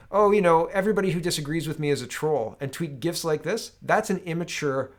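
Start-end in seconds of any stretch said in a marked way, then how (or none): 0.1-2.6 dismissive mock leader voice. Mocking leadership brushing off critics, dismissive. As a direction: sneer it like a smug politician. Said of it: "when they say things like".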